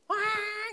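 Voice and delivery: a high wailing baby's cry, quickly mimicked; imitated baby cry. Preacher mimicking his baby's cry, high wail. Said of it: "Bayi itu kan cuma bisa nangis".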